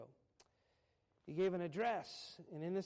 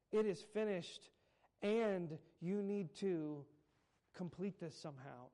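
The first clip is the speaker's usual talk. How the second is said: mocking misquote; 3 semitones higher, 5 dB louder, slower than usual. Shown as a demonstration. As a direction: scoff at the idea of unfinished work. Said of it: "it's not".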